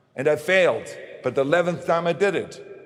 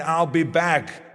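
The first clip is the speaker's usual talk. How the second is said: slow, deliberate I'll be back; Terminator line; much slower than usual. Shown as a demonstration. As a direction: draw out the catchphrase like the robot. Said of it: "I cannot imagine the line".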